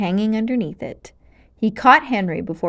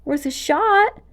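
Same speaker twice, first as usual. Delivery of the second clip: croaking; 7 semitones higher than usual. Acted. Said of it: "Malgosia croaked".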